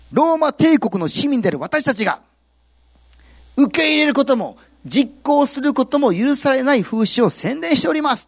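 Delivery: accusing the apostles, building from firm to loud and high; loud accusation. Acted. Slave owner accuses Paul before officials, building to a loud high cry. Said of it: "と大きな声で言いました".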